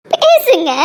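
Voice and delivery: sudden high, loud plea to speak; desperate shout. Acted. Keerthana shouting at her lover to speak, a desperate cry. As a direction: cry out for him to talk.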